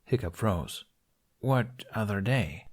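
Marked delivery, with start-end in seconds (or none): 1.4-2.7 slow and wary; slow question. Acted. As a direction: ask it slowly, cautiously. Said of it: "he asked slowly".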